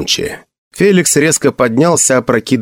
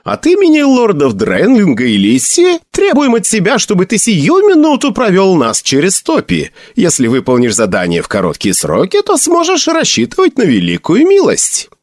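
booming biblical narration; 9 semitones higher than usual. Acted. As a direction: announce it like a royal herald. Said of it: "громким и торжественным голосом".

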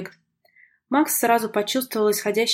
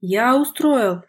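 drawn-out, louder cry of indignation; indignant yell; 2 semitones higher, 5 dB louder, much slower than usual. A narrator's reading. Brother blamed by his sister for the row, indignant yell. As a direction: stretch the words in a moderately loud protest. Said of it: "заорал возмущённый до глубины души Игорь".

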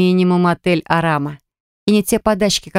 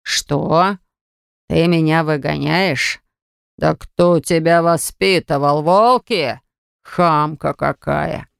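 slow, drawn-out affronted disbelief; indignant outrage; much slower than usual. A narrator's reading. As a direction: draw out each word in offended anger. Bagrat outraged at being thrown out.

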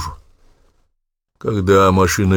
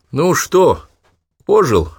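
high relieved louder question; relieved teasing; 8 semitones higher, 4 dB louder, much slower than usual. Acted. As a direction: tease him back to life. Louis checks on revived Danilov. (облегчённо, с подначкой)

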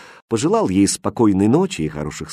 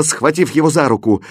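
plain reading voice

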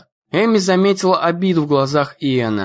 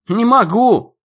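high, loud panicked cry; 7 semitones higher, 3 dB louder, slower than usual. A narrator's reading. Ian answers while fleeing the dog, loud and panicked. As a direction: yell it while running away.

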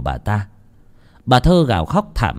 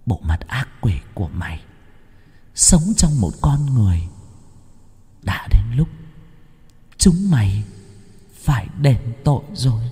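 through gritted teeth; 3 dB quieter than usual. Acted. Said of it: "nghiến răng nghiến lợi".

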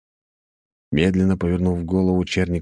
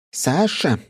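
serious tone; 10 semitones higher than usual. A narrator's reading. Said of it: "серьёзно сказала Софья Андреевна".

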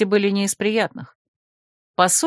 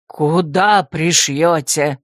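low, slow, pressing question; raised voice; 4 semitones lower, much slower than usual. Acted. Rector demands an answer from Lulu, low and stern. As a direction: lean on him with a lowered growl. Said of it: "повысил голос ректор".

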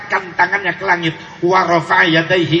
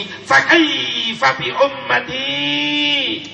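pleading question; 7 semitones higher, slower than usual. Acted. Prophet asks about his people.

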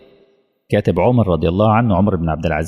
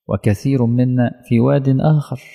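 slow, raised higher for emphasis; emphatic raised echo; raised repeat; 4 semitones higher than usual. Shown as a demonstration.

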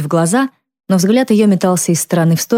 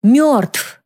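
shouted, much higher; sudden shout; 9 semitones higher than usual. A narrator's reading. Drunk mother suddenly yelling at her daughter, shouting. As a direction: burst it out and slam the table. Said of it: "внезапно выкрикнула мама".

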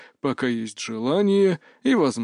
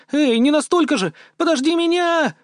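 high, louder call from behind; calling after him; 4 dB louder than usual. Acted. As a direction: shout after him as he runs off. Мия отстаёт на бегу. (кричит вслед, высоко и громче)

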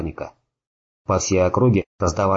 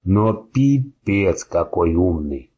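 slow, gurgling with blood; much slower than usual. Acted. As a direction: push it out through blood. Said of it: "булькая кровью, негромко сказал".

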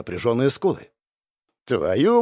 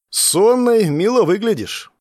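slow, higher, louder teasing compliment; 8 semitones higher, 5 dB louder, slower than usual. Acted. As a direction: tease her gently about looking sleepy. Teasing the sleepy girl. (медленно, игриво, поддразнивая)

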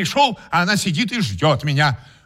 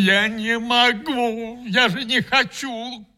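tearful; 7 semitones higher, slower than usual. Acted. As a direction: say it through tears. Он плачет. (сквозь слёзы тихо оправдывается)

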